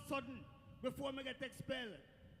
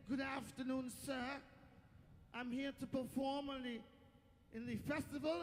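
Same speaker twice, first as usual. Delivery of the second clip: put-on careful, polite English accent; best English accent. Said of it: "in my best English accent".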